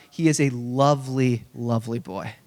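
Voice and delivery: fond aside. Real, not acted. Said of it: "I just have to say this up front".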